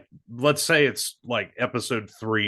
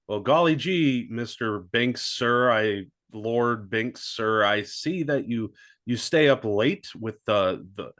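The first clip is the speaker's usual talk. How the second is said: put-on wholesome 1950s kid. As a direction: play it like an eager 1950s kid. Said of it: "Dark Cousins being like".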